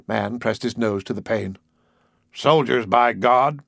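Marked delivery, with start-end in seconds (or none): 2.3-3.6 exclaimed with mild force; emphatic. A narrator's reading. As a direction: land firmly on each word. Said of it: "he said emphatically".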